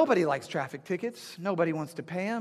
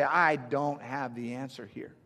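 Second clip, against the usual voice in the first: earnest prayer; 3 dB louder than usual. Retold or imitated. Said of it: "reach out to God and say".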